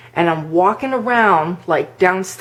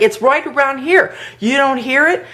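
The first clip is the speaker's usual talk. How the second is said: retold freaked-out; 7 semitones higher than usual. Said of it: "like, freaked out".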